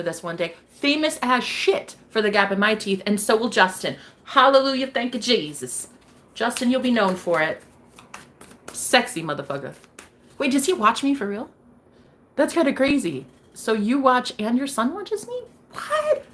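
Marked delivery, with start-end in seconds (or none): 4.2-5.9 joyful hallelujah. Real, not acted. Celebratory exclamation. 15.7-16.2 leaps very high; astonished what. Real, not acted. Surprise viewer's son watches.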